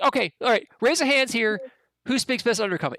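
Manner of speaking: high, pushy little goblin leader; bossy goblin. Acted. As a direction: call for a show of hands like a smug goblin boss. Goblin takes charge, high.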